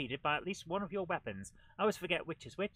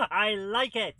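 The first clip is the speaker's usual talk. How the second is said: delighted; 5 semitones higher, 11 dB louder, slower than usual. Real, not acted. Delighted after explosion.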